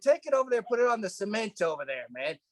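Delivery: high, insistent retold order; acting out a worked-up demand; fired up. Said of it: "and I'm fired up, man".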